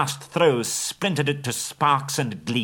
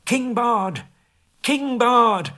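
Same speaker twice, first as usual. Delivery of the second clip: high, loud cheering acclaim; crowd shouting; 14 semitones higher, 5 dB louder, much slower than usual. Acted. Townsfolk cheering Bard as their new king, shouting. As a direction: hail him as king at the top of your voice. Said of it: "they shouted".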